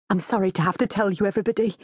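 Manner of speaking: mildly melodramatic confession; dramatic gulping. A narrator's reading. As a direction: confess in a put-on anxious voice. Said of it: "she gulps dramatically".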